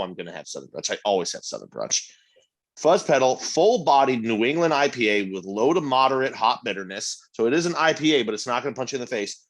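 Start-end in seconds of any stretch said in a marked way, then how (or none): 2.8-9.4 tasting note read. Acted. Reading beer description aloud.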